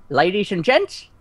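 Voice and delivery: Dick Van Dyke. Shown as a demonstration. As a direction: play a badly faked Cockney showman. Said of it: "Dick Van Dyke attempting a Cockney accent".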